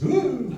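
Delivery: high, loud mock girly "ooh"; girly squeal. Actor spots the snake under the bed, a mock girly squeal. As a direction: squeal like a frightened girl, hammed up. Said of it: "one of those girly things".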